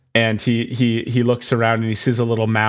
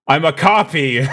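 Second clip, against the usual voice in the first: higher, laughing mock cry; shocked pirate; 5 semitones higher, 3 dB louder than usual. Pirate realizing he's a copy, laughing mock shout. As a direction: crack up mid-line in mock horror. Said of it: "Stephen Lang is like".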